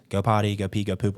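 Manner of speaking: flat, even potty command with no excitement; monotone command. Shown as a demonstration. Trainer showing a dull night potty command, monotone. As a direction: say it like it bores you. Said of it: "in a monotone voice".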